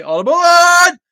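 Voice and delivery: high, loud conductor's cry; train conductor call. Acted. Host welcoming viewers aboard, loud conductor cry.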